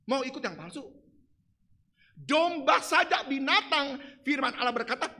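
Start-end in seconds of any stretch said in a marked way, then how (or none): none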